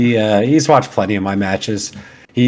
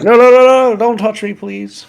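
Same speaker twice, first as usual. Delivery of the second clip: mock panic; 14 semitones higher, 7 dB louder than usual. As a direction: frantically stop the kid, then ease off. Retold dad stopping kid's touch.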